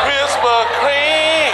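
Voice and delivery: high, drawn-out shouted longing; ecstatic craving. Pretend. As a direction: drag it out like a food flashback. Flashback ecstasy.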